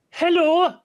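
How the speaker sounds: sudden loud, high hello; loud mock greeting. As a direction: call it out loud with mock cheer. Player greets the gagged prisoner.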